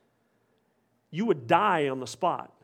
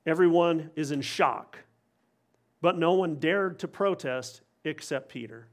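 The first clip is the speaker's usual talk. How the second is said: usual speaking voice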